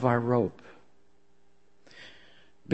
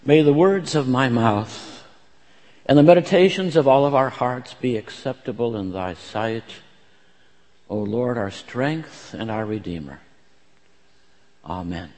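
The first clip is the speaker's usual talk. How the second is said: pastor's reverent opening prayer; 2 semitones lower than usual. Acted. Leads a prayer.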